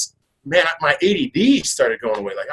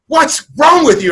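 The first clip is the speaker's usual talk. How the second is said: higher, slow worried wife; wife's alarmed question; 11 semitones higher, 5 dB louder than usual. Retold or imitated. Wife shaking him awake, asking alarmed and high. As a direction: voice the startled wife leaning over him.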